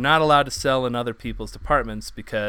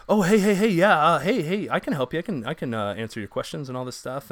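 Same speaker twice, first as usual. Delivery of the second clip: hustle in, desperate for the sale; mock voice of a commission-hungry salesman; pushy salesman; 4 semitones higher than usual. Mocking pushy pot-bellied salesman.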